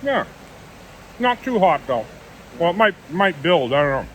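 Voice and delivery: talking while chewing; words around a bite of jalapeno stick; mouth full. Real, not acted. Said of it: "Don't talk with your mouth full".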